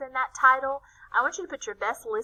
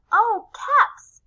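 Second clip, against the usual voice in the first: chuckling; 12 semitones higher, 9 dB louder than usual. A narrator's reading. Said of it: "And then she chuckled".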